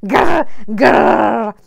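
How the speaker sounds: put-on growled, loud Glasgow accent. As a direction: read it in a rough Glasgow accent. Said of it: "do your Glasgow accent".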